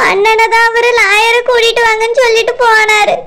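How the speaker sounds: weepy, crying voice; tearful. Acted. Wife passing on husband's request for a lawyer, crying. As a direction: keep crying as you speak. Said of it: "தங்கச்சி, அழாதம்மா".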